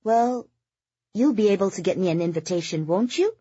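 high, quick wheedling with a lilting tag question; coquettish. A narrator's reading. Socialite angling for an invitation from Oliver, coquettish. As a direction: coax him flirtatiously, lifting high at the end. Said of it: "Implicit in Kitty's coquettish tone".

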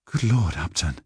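understated surprise on waking; exclaiming. Acted. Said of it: "she exclaimed".

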